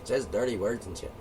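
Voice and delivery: high, prim mock old lady voice; little old lady. Mocking a prudish old lady complaining, high prim voice. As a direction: lightly play a shocked old lady. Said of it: "the little old lady said".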